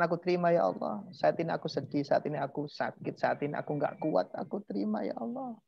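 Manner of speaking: soft, sincere murmured prayer; demonstrated prayer of acceptance. Shown as a demonstration. Teacher modelling an acceptance statement to God, softly sincere. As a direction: quietly confess and surrender. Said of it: "Setelah Anda mengatakan".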